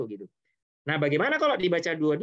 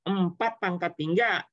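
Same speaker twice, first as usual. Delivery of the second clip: slow, spelled-out formula; 3 semitones higher than usual. Shown as a demonstration. Teacher to students, slowly spelling out the formula. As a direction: slowly lay out empat pangkat tiga, each word drawn out. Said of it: "teacher stresses the key formula".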